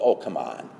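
low, lightly voiced sceptical objection; dismissive worldly critic. The world chiding Father for drama, lightly dismissive. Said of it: "The world says".

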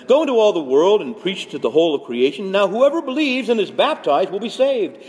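high, forceful proclaiming voice; emphatic scripture proclamation. Acted. Jesus sending disciples to preach, proclaimed emphatically. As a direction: proclaim it as a solemn command. Reads Jesus' commission aloud.

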